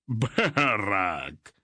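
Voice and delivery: sailor hollering a name down from the mast; shouted name. A narrator's reading. Sailor on the mast shouting to his old friend. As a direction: call out across the deck. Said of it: "a burly man halfway up the mast shouted".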